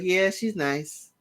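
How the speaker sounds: a flat, offhand "Yeah, she's nice." with slow, dismissive drawn-out words; slow lukewarm "Yeah, she's nice." as if not meant; fake nice. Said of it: "And she genuinely says".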